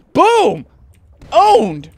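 triumphant. Real, not acted. Gamer gloats over kill.

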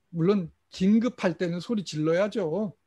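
usual speaking voice

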